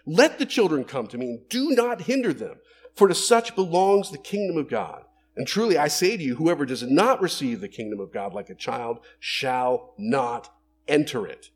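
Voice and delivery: loud firm rebuke; a touch of indignant command; indignant Jesus. Acted. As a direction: scold the disciples firmly. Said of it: "He was like".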